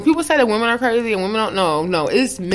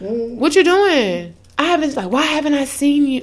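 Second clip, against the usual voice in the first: mock clingy guy; 6 semitones higher than usual. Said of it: "then it was like".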